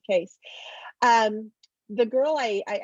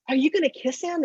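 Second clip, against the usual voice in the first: little sister; 6 semitones higher than usual. Retold or imitated. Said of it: "And she says".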